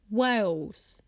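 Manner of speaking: Wales drawn out slowly as English speakers say it; English pronunciation. Shown as a demonstration. Showing how English people give away Wales, drawn-out English pronunciation. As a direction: say Wales long, English-style. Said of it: "when they say Wales".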